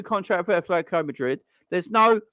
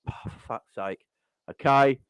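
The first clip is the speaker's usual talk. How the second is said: mock deflated fans; 6 semitones lower than usual. Fans hearing Dortmund won't sell, deflated and lower. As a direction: sink into the disappointment.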